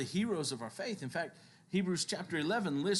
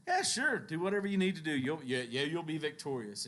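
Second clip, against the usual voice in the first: sarcastic; 2 semitones higher than usual. Acted. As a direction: brush them off with mock agreement. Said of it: "you can almost hear the sarcasm".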